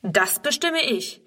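slow, firm director's order; a boss settling it, slowly and firmly; commanding. Acted. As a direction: lay it down slowly, used to giving orders. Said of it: "dass er ein Herr Direktor ist, der das Befehlen gewohnt ist".

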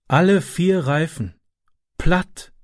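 a touch of resignation at the flat tyres; dejected. A narrator's reading. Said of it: "sagte er niedergeschlagen". (niedergeschlagen, langsam)

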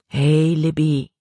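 put-on slow, gentle "Hey, Libby" from a boy; comforting. A narrator's reading. Caleb tries to comfort the crying Libby, gentle and slow. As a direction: soothe her, awkwardly tender. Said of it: "Um sie zu trösten".

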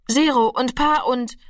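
leicht angedeutetes, höheres Stammeln; atemloses Stammeln. A narrator's reading. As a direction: stammle ein wenig atemlos, wie ein verschüchterter Junge. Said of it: "stammelte Rami atemlos". (leicht atemlos gestammelt)

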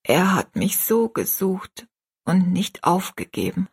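lightly voiced ailing mother, phrases falling away; earnestly prepare your child, a little weakly; a hint of a failing, solemn mother; gentle dying mother. Dying mother counsels her daughter.

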